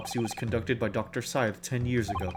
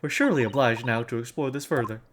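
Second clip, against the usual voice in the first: higher, thrilled southern lady; southern accent; 3 semitones higher than usual. Acted. A lady savouring courtroom intrigue, mild southern accent. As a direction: relish each secret in a mild southern twang. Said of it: "I have a southern accent when I'm British".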